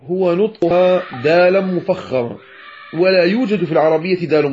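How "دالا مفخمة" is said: ضاد mispronounced as a heavy د; the common error of a velarized dal; emphatic dal. Shown as a demonstration. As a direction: say ض wrongly as a thickened, emphatic D. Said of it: "في نطق حرف الضاد هو نطقها".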